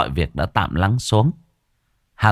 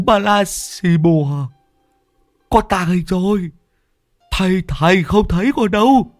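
silly high clown voice; 10 semitones higher than usual. A narrator's reading. Lâm Sẹo clowning to his master in a high silly voice. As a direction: ham it up like a scared fool. Cowardly Sẹo playing invisible.

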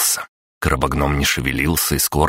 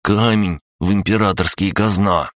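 crab voice; 5 semitones higher than usual. Acted. Crab gnome confesses.

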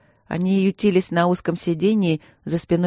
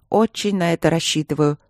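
icy tone. Acted. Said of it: "сказала королева ледяным тоном".

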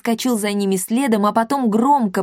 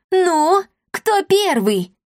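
fierce challenge; 10 semitones higher, much slower than usual. A narrator's reading. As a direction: dare them to come at her. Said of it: "грозно воскликнула она". (грозный вызов, громко и медленно)

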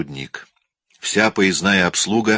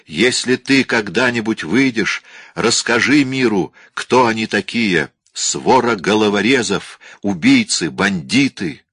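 raised, desperate calling voice; shouting at the top of his lungs; 3 semitones higher than usual. Acted. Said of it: "стал кричать во всё горло".

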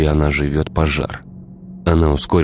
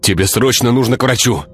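blurted; 6 semitones higher than usual. A narrator's reading. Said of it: "выпалил Игорь".

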